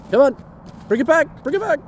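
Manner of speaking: high excited dog-talk voice; squeaky praising a dog. Real, not acted.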